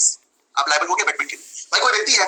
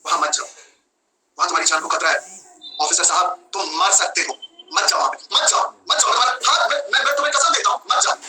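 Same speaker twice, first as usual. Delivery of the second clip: mock pleading; 3 semitones lower than usual. Bystander begs police officer not to walk into a shootout, mock pleading. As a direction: play at begging someone to stay back. Acted plea to stop the officer.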